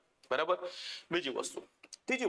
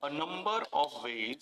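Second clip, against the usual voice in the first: slow dictation; much slower than usual. Shown as a demonstration. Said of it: "વાક્ય આવી રીતે બની શકે".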